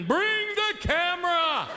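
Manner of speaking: hammed-up thrilled shout; mock excited yell. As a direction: shout like it's a big event. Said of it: "You're screaming".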